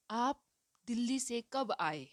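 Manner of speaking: कब stressed as the question word; teacher modelling a question. Shown as a demonstration. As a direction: lean on कब. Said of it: "यहाँ प्रश्न है".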